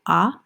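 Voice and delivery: "ah" as an open short O; short O sound. Shown as a demonstration. Teacher summing up the week's phonics, "ah" sounded distinctly. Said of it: "words with a short O".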